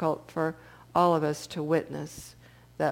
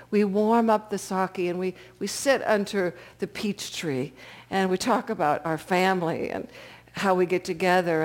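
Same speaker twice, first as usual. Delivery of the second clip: lightly voiced elder reminiscing; gentle old man. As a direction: savor the word sake like a fond memory. Old man charms the drunk.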